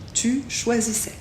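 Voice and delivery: "choisissais" finissant en è, sans S; tu plus haut, puis "choisissais" au S muet; AI prononcé è. Shown as a demonstration. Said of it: "ça se prononce toujours est". (« choisissais » avec finale en è, S muet)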